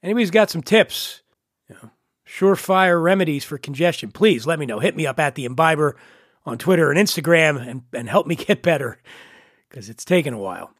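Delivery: stuffy head-cold voice; nasal voice. Real, not acted. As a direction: talk through a blocked nose. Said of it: "Apologies for the nasal twang".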